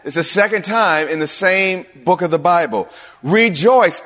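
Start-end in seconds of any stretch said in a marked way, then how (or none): 3.2-4.0 "Rejoice!" punched higher and a bit louder; exclamation. Shown as a demonstration. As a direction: bark out "Rejoice!" like an exclamation mark. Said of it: "Exclamation point".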